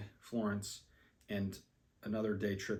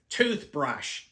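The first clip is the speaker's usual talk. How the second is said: louder, one word spelled out for a foreigner; loud slow repeat; 4 semitones higher, 6 dB louder than usual. Retold or imitated. Friend repeating toothbrush louder to confused pharmacist. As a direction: say it slowly for someone who doesn't understand.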